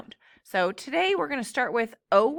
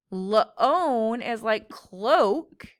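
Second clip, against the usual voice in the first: very slow; 3 dB louder, much slower than usual. Shown as a demonstration.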